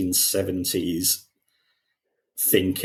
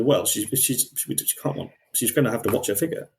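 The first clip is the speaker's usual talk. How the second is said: mock condescending; 4 semitones higher, faster than usual. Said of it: "and that tone".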